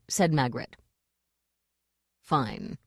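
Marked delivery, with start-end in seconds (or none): 2.2-2.8 low grumpy growl. Acted. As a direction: growl it out grudgingly. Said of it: "growled Hwell".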